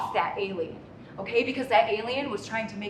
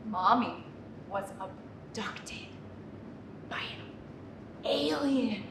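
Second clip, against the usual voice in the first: spooky reveal; 3 semitones lower, 6 dB quieter, slower than usual. Acted. Mother's dramatic spooky reveal.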